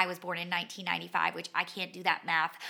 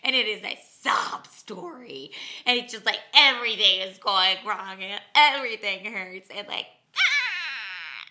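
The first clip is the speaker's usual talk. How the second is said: retold sobbing; 8 dB louder than usual. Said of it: "and I start sobbing".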